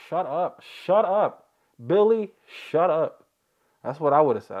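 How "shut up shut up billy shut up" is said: higher-pitched mock telling-off; mock exasperated yell. What he would've said to the kid, mock exasperated yell. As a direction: cut the nagging kid off, pitch climbing.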